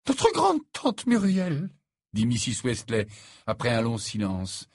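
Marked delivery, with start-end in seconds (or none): 0.1-1.7 slow, very high mother's voice; deliberate peace offering. A narrator's reading. Mother breaking the long silence to the fiancée, deliberate. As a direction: draw it out carefully, high-pitched.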